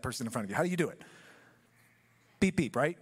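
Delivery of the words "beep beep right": soft little "Beep, beep"; gentle beep. Shown as a demonstration. Preacher showing the congregation a polite horn, soft beeps. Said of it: "Re-, real gentle, nice and soft".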